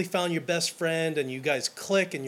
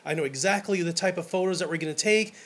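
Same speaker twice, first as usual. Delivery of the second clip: gushing excitement; 3 semitones higher, faster than usual. Retold or imitated. Photographer to bride, fast and thrilled. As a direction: rattle it off like an eager photographer hyping the venue. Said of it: "I'm just like".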